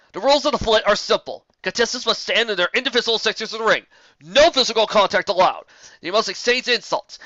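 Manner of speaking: loud, high ringmaster voice; calmer announcer. Acted. Old Griffin explaining rules to crowd, loud announcer. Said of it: "in a slightly calmer voice".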